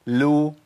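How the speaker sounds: "لو" as an isolated syllable, L rounding into u; lam with damma. Shown as a demonstration. Teacher demonstrates each vowelled lam, L with damma. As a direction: model "لو" neatly on its own. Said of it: "المتحركه بضم".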